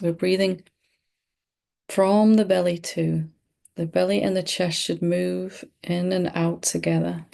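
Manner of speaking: calm, unhurried meditation guide with long pauses; measured meditation delivery, pausing often; guided meditation. Real, not acted. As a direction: lead them gently through breathing, leaving space between phrases. Leads a breathing meditation.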